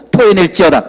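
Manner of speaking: loud mock exorcism command, like a preacher; a half-playful pulpit rebuke; commanding decree. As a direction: order it out with solemn force. Commanding dog to spit out pin.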